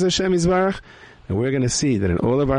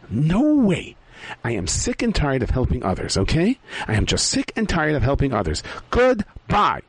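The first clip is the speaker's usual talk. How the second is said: annoyed refusal; 4 semitones higher than usual. Acted. Selfish character refusing angrily.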